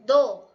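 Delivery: "Do" golpeado, mucho más fuerte; stressed "Do". Shown as a demonstration. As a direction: remarca "Do" con fuerza. (énfasis fuerte en "Do")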